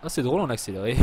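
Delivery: loud laughing through the words into a laugh; amused, then burst out laughing; real loud laughter. Real, not acted. Laughs at sped-up game.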